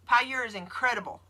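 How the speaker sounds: says Pure in her Southern accent. Shown as a demonstration. Responding to viewers about her accent, Southern accent. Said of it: "With the accent".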